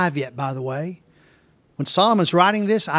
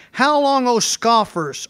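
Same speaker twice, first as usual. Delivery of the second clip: high opening cry, falling away; Wisdom calling out; 6 semitones higher, slower than usual. Acted. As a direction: call the question out as Wisdom, then ease. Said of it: "wisdom shouts from the streets".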